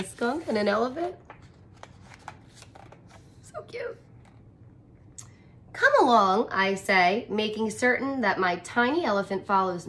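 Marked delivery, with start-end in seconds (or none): 3.4-4.0 gushing. Real, not acted. Reader reacts to pets. 5.7-6.5 calling out. Acted. Boy calls to his elephant.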